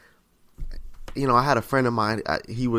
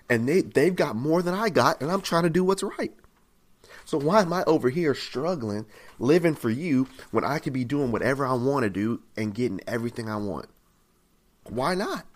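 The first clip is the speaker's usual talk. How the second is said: frustrated believer; 2 semitones higher than usual. Acted. Struggling believer questioning God, frustrated and protesting. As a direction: plead the unfairness of it. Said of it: "You ever feel like that before too".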